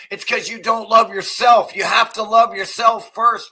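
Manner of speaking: shouted rant line; shouting. Real, not acted. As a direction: yell it at them. Ranting at politicians.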